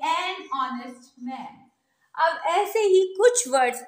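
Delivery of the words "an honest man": very slow, each word drawn out; slow model pronunciation. Shown as a demonstration. Teacher modelling a phrase for students, very slow and careful. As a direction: spell it out slowly for the class. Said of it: "पर sound आ रही है vowel की".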